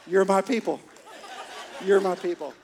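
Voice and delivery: loud, proud punchline call; gleeful dad joke. Pretend. Dad calling the waiter over for his joke, loud and gleeful. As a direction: crow the old joke at the waiter. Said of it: "with a glimmer in your eye".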